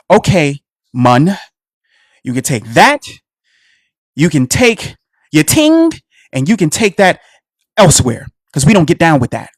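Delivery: mock Jamaican patois, dropped low; imitating a Jamaican speaker brushing him off; Jamaican accent. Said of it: "if Kool Herc played reggae".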